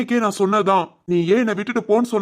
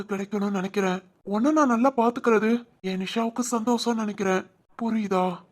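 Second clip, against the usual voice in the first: tender comfort; 2 semitones lower, 4 dB quieter than usual. Acted. Comforting his crying girlfriend.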